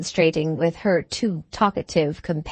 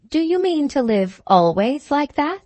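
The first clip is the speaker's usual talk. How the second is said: higher-pitched, artless woman's question; innocent question; 7 semitones higher than usual. A narrator's reading. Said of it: "she asked in perfect innocency".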